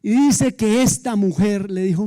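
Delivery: ordinary delivery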